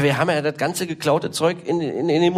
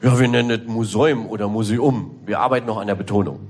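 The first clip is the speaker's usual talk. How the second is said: "Museum" then "Museum" with shifting stress, low and dry; mock advisor stress; 7 semitones lower than usual. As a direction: play the advisor unsure of the stress. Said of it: "Und er so".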